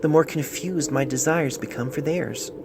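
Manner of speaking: a touch lighter, tender reading; lightly voiced letter writer. Doctor reads the patient's love letter aloud, lightly voiced. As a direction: read the love letter as its young writer would say it. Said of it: "lightening his pitch".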